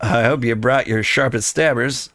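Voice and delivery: a lightly voiced cant-speaking rogue; mild rogue voice, thieves' cant slang; roguish guild thief. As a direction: talk like a sly old street thief. Underfoot NPC speaking to player.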